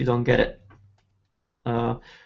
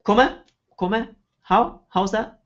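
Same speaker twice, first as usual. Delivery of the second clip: questioning rise; 6 semitones higher, much slower than usual. Shown as a demonstration.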